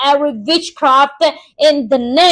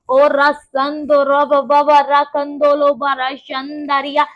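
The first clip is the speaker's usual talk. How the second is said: speaking in tongues. Real, not acted. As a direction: pour out the syllables in prayer. Glossolalia in prayer.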